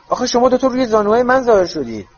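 protest, put out; indignant protest. Acted. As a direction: Ron complaining to the twins, indignant. Ron protests at twins.

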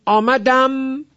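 "آمدم" slow and high, humming on the final m; drawn-out "آمدم", held on its last consonant; sukun ending. Shown as a demonstration. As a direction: show the vowelless m closing "آمدم". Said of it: "بازم سکونه".

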